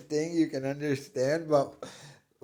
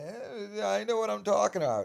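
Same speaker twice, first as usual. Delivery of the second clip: mock know-it-all; 9 semitones higher than usual. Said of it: "And now he's acting like".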